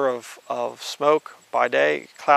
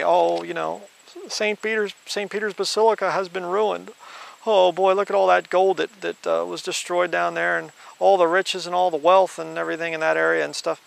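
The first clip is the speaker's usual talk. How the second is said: a lightly voiced fake mourner, pitched higher; mock lament; 4 semitones higher than usual. Preacher mocking Catholic mourners, lightly voiced mock grief. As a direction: sigh over the ruined gold in mock sorrow. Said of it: "We're not gonna weep for".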